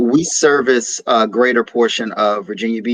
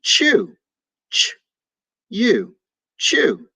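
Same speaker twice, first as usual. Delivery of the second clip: bright praise; 8 semitones higher, much slower than usual. Shown as a demonstration. Teacher praising a child's answer, excited and high. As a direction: chew said higher with delight, then sounded out. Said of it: "That's right".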